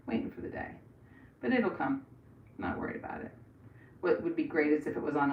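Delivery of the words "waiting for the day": breathy whispered repeat; a soft voiceless echo. Acted. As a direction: whisper the phrase back to yourself.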